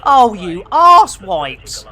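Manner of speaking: slow, loud jokey insult yell; hammed-up shout; mock angry shout. Real, not acted. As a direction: bellow it like a grumpy pilot. Shouting at other players.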